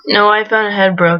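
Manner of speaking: laid-back surfer bro; surfer dude voice. Acted. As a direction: chill surfer lingo, easygoing. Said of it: "this douchey surfer dude voice".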